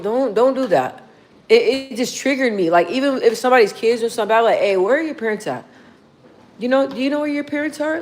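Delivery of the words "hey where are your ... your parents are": put-on gentle, patient question to a stranger's child; calm adult asking. Shown as a demonstration. Adult kindly asks a kid where the parents are, calm and gentle. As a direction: ask it kindly, no scolding. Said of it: "Like, just like that".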